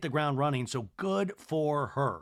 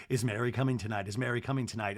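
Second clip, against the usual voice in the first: lowered, hushed repeated question; lightly voiced ghostly echo; imitated echo; 4 semitones lower, faster than usual. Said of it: "And we hear echoing".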